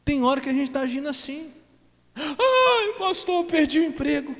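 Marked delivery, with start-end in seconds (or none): 2.1-4.3 much higher, plaintive mock whine; imitating a complaining believer, pitched up high; whiny congregant. Voicing a whining congregant. (fiel reclamando ao pastor, voz aguda e chorosa)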